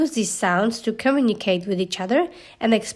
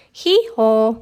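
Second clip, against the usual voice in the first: donkey bray; 4 dB louder than usual. Acted.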